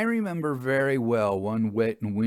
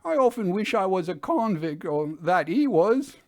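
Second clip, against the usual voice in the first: higher, louder bitter outburst; a hounded man wishing ill; high, louder despairing driver; desperate driver; 10 semitones higher, 5 dB louder than usual. A narrator's reading. Sim speaks despairingly.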